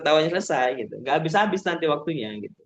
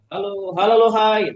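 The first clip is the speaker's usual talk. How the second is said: higher call-and-response chant; rallying yel-yel; 5 semitones higher, 4 dB louder than usual. Shown as a demonstration. Trainer trading greetings with participants, raised chanting voice. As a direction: bounce the greeting out to a crowd. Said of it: "kita juga bisa gunakan yel-yel".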